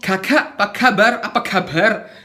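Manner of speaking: "Kakak, apa kabar" tanpa hembusan udara, sambil tertawa; kaf tertahan dibuat-buat. Shown as a demonstration. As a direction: tiru bicara tanpa aliran udara. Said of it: "Nggak mungkin kita ngomong". ("Kakak apa kabar" tanpa udara)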